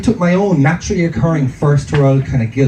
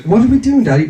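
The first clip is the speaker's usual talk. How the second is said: lightly imitated small child, higher pitch; toddler; 6 semitones higher than usual. Two-year-old asking his dad, lightly imitated higher child voice. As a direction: pipe up like a little kid.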